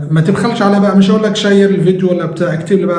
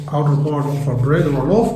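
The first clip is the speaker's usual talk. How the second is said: slow dictation; 3 dB quieter, much slower than usual. Shown as a demonstration. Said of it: "teacher gives English definition".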